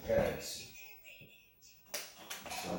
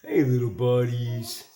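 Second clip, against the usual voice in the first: pet talk; 7 dB louder than usual. Real, not acted. Greeting the pets.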